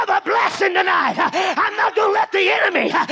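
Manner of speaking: shouted, high-pitched preaching climax, building fervour; preaching at full force. Acted. Preacher rallying the church to break through, shouting. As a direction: drive it home to the congregation, full voice.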